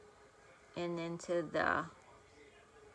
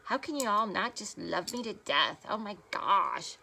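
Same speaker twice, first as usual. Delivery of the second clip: mock arrogant bragging. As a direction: gush over yourself like a vain beauty guru. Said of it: "I'm never gonna say".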